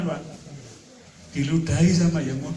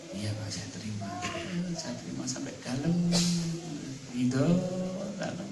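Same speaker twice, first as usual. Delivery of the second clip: soft, accepting voice; 7 dB quieter than usual. Acted. Voicing a congregant who accepts.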